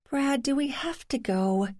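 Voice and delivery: put-on high, pleading whine like a kid; whiny child. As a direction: whine it like a child who won't go. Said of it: "sounded like a whiny child".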